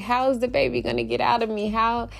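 put-on big baby whine. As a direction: rattle off worried baby questions. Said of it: "I act like a big baby".

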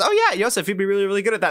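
high, gushing mock voice of a friend; high mock friend's gush; imitating his friend. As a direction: squeak it up like an eager friend. Retelling friend Chaya agreeing.

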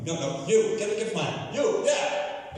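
playful acted shouting; impatient summons. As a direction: call out insistently, singling someone out. King summons a servant, acted.

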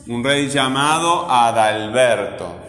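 slow, with long MA in "llamado" and BER in "Adalberto"; stressed syllables. Shown as a demonstration. Teacher repeating for pupils to mark, "llamado" and "Adalberto" stressed slowly. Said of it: "¿Cuál suena fuerte?".

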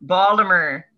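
mocking Baltimore accent, Baltimore said as "Baldimer". Shown as a demonstration. Showing friends how locals say Baltimore, in a Baltimore accent. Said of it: "They say things like".

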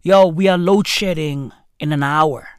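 imitating the power company warning about load shedding; mock power company. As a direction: play the utility company ordering everyone out. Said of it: "they're like".

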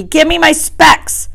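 high, drawn-out howling demand; howled. A narrator's reading. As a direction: howl for it, stretching the words. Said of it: "howled Piggy".

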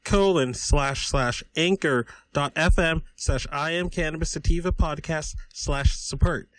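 brisk podcast sponsor read. Acted. Podcaster reading his sign-off plug to listeners. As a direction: rattle off the web address like an ad.

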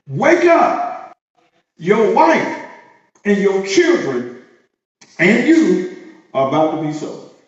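commanding wake-up call. Retold or imitated. Consequence calling the servant to wake, commanding. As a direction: rouse him like an alarm. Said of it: "That's what the consequence said".

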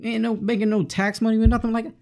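high-pitched mock complaint; panicked mayor. Mayor losing tax money going crazy, high mock complaint. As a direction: whine it high as the flustered mayor. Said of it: "he's like".

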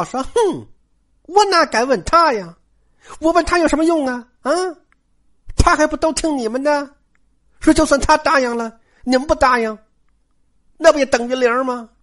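scornful, high-pitched retort; cold sneer. Acted. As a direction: open with a scoffing huff, then needle her. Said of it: "冷笑道". (冷笑着高声讥讽)

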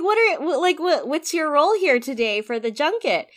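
eager fan asking questions; excited. Retold or imitated. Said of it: "And then I was like".

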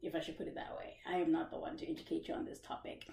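quiet aside. Real, not acted. Host quietly repeating she is not the one to educate them. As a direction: drop to a near whisper.

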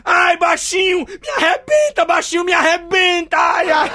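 high, loud ecstatic shouting; mock ecstatic shouting, high and loud; loud cries. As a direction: scream it out, hammed-up passion. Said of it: "a coroa vai e grita".

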